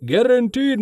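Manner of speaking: high booming sales pitch. Acted. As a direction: boom it out like a huckster. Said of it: "he boomed".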